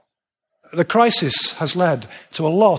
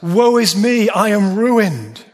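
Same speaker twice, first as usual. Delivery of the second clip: higher, slow anguished cry of doom; crying out in woe; 4 semitones higher, slower than usual. Retold or imitated. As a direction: cry it out like a prophet undone. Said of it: "is to cry out".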